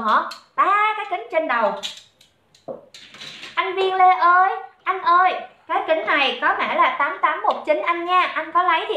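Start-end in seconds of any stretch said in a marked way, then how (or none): 3.5-5.3 higher-pitched call to get attention. Real, not acted. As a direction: call out to a viewer, voice lifted. Calling out to a viewer. (cất giọng gọi với)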